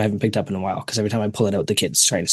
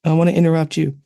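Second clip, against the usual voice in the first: higher-pitched child's interruption, imitated; half-hearted retold yell, pitched up; mild mock scream; 7 semitones higher, 4 dB louder than usual. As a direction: lightly imitate a screaming kid butting in. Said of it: "one starts screaming".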